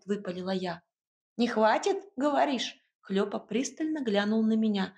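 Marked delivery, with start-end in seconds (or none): 1.4-2.8 higher, brisk small-creature voice; a bustling little house spirit giving orders. Acted.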